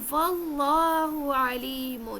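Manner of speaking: واللہ علیم recited slowly with a throaty ain in علیم; correct ain recitation. Shown as a demonstration. Teacher reciting the verse words for students, slow with proper ain. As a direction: draw out واللہ علیم, pharyngeal ain clearly sounded. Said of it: "جب ہم اس کے سامنے پڑھتے ہیں".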